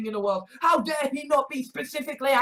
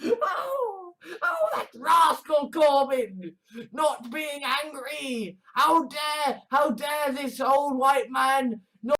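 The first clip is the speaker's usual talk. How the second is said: mock outrage; 2 semitones higher, slower than usual. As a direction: lament it like a scandalised critic. Mock dismay at Corbyn not being angry.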